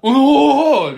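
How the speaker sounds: high, loud surprised exclamation. Retold or imitated. Reacting to being recognized by the clerk, loud surprised oh. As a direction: burst out in amazement.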